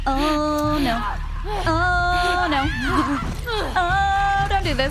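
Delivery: high, loud, panicked squealing with laughter; panicked squeals. Real, not acted. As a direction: shriek in mock terror, half laughing. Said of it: "I am very soft and easily frightened".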